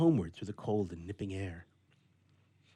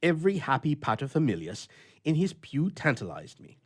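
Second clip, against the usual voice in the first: louder, gloomy complaining bachelor; a lonely grouch airing his gripes; grumpy old bachelor; 4 semitones higher, 6 dB louder than usual. A narrator's reading. Bluff tells his adventure.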